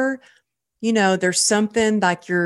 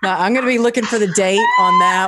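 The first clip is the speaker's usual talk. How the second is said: louder, fast and gleeful; fast, louder, giddy follow-up; excited laughing; 4 dB louder, much faster than usual. Real, not acted. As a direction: keep the laugh going, fast and loud. After joking about nude photo.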